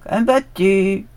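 a slow, lightly voiced goat; drawn-out billy goat answering. A narrator's reading. Old goat answers the dog in a slow, lightly voiced drawl. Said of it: "dit le bouc".

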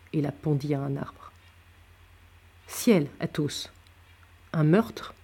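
measured audiobook reading with acted dialogue; story narration. A narrator's reading. Narrator reading Athos's tale to listeners, storytelling. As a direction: read the novel aloud, pausing between phrases. Reads a novel aloud.

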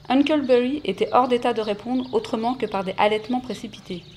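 story narration. Acted. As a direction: lecture expressive d'un roman. Reads Tom Sawyer aloud. (lecture d'histoire)

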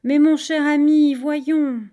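loud, high, hearty protest; falsely jovial shout; shouted reassurance. A narrator's reading. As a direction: cry out that it was all in fun. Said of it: "il a crié".

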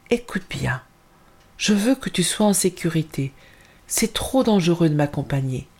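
serious and hushed at first; grave tone. Acted. Mother telling her daughter to stay safe, gravely. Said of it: "d'un ton grave".

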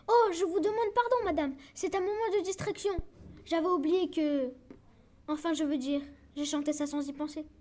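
grovel your excuses, scared; frightened apology. Acted. Boy caught by the witch, apologising in a panic. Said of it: "j'essaye de m'excuser".

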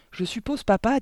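composed tone. A narrator's reading. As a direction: address dad calmly and politely. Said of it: "dit Mathilda d'un ton posé". (ton posé, voix haute d'enfant)

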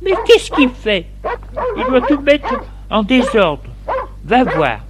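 high-pitched wife voice, easing down at the end; storyteller's high voice for the wife; complaining wife. A narrator's reading. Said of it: "Denise dit à Jules".

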